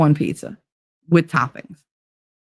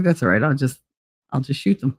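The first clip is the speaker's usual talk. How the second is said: low, slightly softer quoted voice; deadpan male reply; 3 semitones lower, 3 dB quieter than usual. Retold or imitated. Fredo answering that he'll just shoot them, low deadpan. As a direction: drop it low and matter-of-fact.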